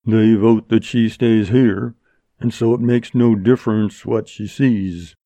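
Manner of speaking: lightly voiced rustic Western outlaw; laconic bandit. Black Jim reports the gang's vote, matter-of-factly. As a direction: lay out the facts, level and unhurried.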